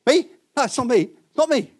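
high, anxious protest of innocence; a hammed-up panicky denial; alarmed denial. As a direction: play the disciple insisting it's not him. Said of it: "they all said".

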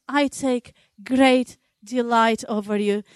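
lightly voiced loving God, gentle; a hint of God's tender voice. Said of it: "He looks down upon us and says".

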